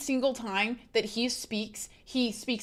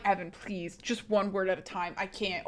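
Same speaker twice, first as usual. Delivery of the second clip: quieter, worn-down retold pleading; soft mock plea; 6 dB quieter than usual. Overwhelmed learner to boyfriend teaching her Greek, softly pleading. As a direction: imitate yourself begging softly for mercy. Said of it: "and I'm like".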